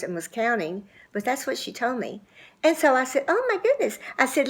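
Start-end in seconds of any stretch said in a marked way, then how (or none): 3.3-4.0 surprised exclamation. Retold or imitated. Reacting to two years unhugged.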